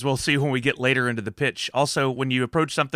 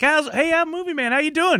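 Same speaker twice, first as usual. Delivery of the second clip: high mock voice. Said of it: "I was like".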